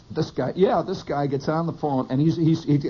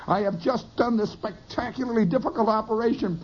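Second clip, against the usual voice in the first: lightly pompous surgeon, raised pitch; majestic brain surgeon; 6 semitones higher than usual. Pretend. Storyteller imagines himself a brain surgeon, mock majestic. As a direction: declaim it with mock-majestic pride. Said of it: "I saw myself as this majestic brain surgeon".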